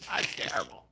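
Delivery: deep growly monster whisper; Cookie Monster voice. Retold or imitated. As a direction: rumble it like a muppet monster. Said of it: "He had the Cookie Monster voice".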